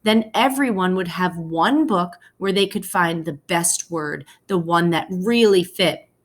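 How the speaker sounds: expressive storybook read-aloud for a class; reading to children. Acted. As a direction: read it like a teacher sharing a picture book with kids. Teacher reads picture book aloud.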